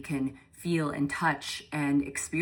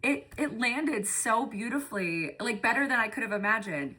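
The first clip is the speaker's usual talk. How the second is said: high, emotional voice, moved almost to crying; touched, near tears; 8 semitones higher, faster than usual. Real, not acted. Coach moved by her team's reactions to the walk, emotional and high-pitched. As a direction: overcome with feeling, pitched way up and softening. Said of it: "You're gonna make me cry".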